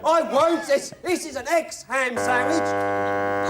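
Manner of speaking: slow, deliberate Python complaint; Monty Python sketch voice. Acted. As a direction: spell it out slowly, Python style. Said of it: "Monty Python".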